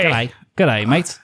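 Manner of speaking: lightly put-on Australian greeting; a hint of Aussie twang; faint Australian accent. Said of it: "you do an okay one".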